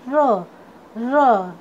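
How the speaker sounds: र as a lone "ruh", said separately; phonic letter sound. Shown as a demonstration. Teacher showing students the sound of R, phonic letter sound. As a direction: sound out र as R starts "rat". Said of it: "आर का sound होता है".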